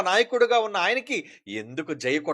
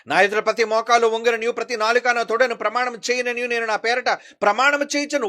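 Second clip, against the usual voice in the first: raised-pitch scriptural proclamation; forceful preaching; 6 semitones higher, 7 dB louder than usual. Acted. Preacher voicing God's command that every knee bow, forceful preaching. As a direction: proclaim God's words to the whole congregation.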